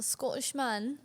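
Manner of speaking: put-on light Scottish accent, swallowed middle of Scottish; attempted Scottish accent. Teasing her friend about men, attempted Scottish accent. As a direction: try a Scottish "Scottish man". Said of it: "Is that the accent?".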